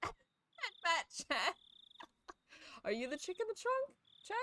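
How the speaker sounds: high squeaky laughter through the words; laughing. Real, not acted. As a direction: crack up while reading it. Laughing misreading the line.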